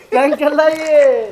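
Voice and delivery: slow, stretched-out announcement; drawn-out prank reveal. Real, not acted. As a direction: stretch each word as you call it out. Repeats the reveal, drawing it out. (शब्दों को खींचकर ऐलान)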